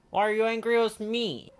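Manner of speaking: high, loud amazed question. Acted. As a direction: sound truly baffled.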